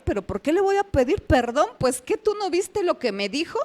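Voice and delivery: mildly indignant retold protest. Wife arguing with God over apologizing, mildly indignant. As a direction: imitate yourself objecting, pitch lifting. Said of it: "así como indignada con el Señor".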